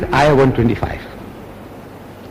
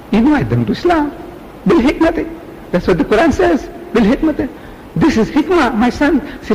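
pretend scholar; 5 semitones higher than usual. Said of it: "they said".

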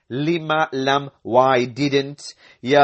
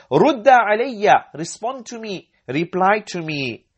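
stern teacher quote; 6 semitones higher than usual. Retold or imitated. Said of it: "So the teacher says".

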